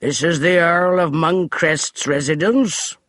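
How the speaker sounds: slow, pompous butler's announcement; haughty butler voice; stiff declaration. Acted. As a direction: declare it with servant's pride. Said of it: "Finch declared".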